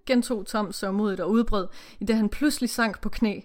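steady read-aloud narration with character lines; story reading. Acted. Reading the novel to the co-host, read-aloud narration.

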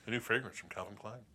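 sultry perfume ad. Pretend. Mock perfume commercial.

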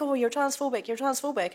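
high-pitched mimicked accusing; lightly mocking chant of accusation. Classmates accusing her in retold argument.

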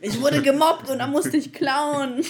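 laughing. Real, not acted. Confessing joke through laughter.

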